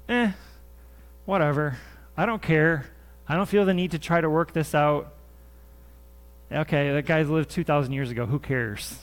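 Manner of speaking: dismissive, shrugging it off; mock indifference. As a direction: act out someone who can't be bothered. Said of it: "that emotion of, "Eh, I don't care".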